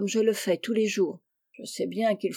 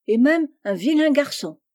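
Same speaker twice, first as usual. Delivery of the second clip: exclaiming; 5 semitones higher, 5 dB louder than usual. A narrator's reading. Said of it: "s'écria Amy".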